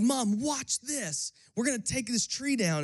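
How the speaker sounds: put-on a kid showing off to his mom; excited kid self. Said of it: "and I'm like".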